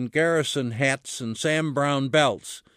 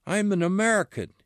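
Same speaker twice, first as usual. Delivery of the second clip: raising his voice; 6 semitones higher, faster than usual. Acted. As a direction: push the claim out fast, mildly raised. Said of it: "raising his voice".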